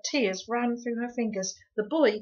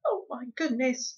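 moaning; 5 semitones higher, 4 dB louder than usual. Acted. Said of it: "moaned Homily".

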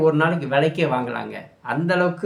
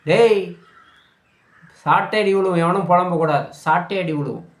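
sharp, raised warning to complainers; stern scolding; 2 semitones higher than usual. Pretend. Commentator threatening complaining voters with a whipping, stern scolding.

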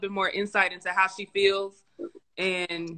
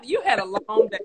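close warm intimate; 3 dB quieter than usual. Pretend. Playful wifely soothing talk.

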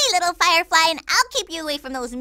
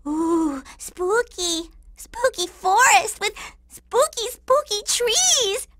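playful spookiness; slower than usual. Acted.

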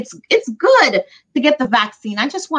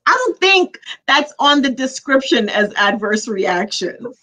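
amused objection, pitched up through laughter; laughing; 4 semitones higher than usual. Real, not acted. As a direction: tease back while trying not to laugh. Friend laughing at the joke.

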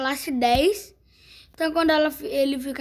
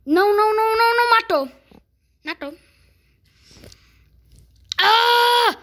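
excited shriek; 6 semitones higher than usual. Real, not acted. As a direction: scream it in disbelief. Shrieking at the result.

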